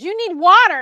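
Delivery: high, loud retold order; imitating a worried man taking charge; urgent. Retells John urgently taking charge.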